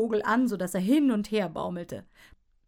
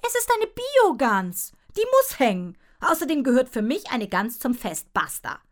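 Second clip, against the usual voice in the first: quarrelling parent; 4 semitones higher, 7 dB louder than usual. A narrator's reading. Mother and father quarrel.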